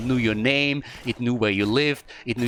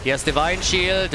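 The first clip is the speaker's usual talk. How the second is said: excited call; 5 semitones higher, slower than usual. Real, not acted. Caster hypes the Divine Shield play, slow excited call. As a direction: stretch it out with hype.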